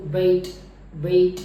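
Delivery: बेट with a light ई glide at the end; correct बेट. Shown as a demonstration. Teacher giving the correct short बेट. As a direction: let a faint ई close बेट. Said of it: "अगर मैं सही बोलूँ".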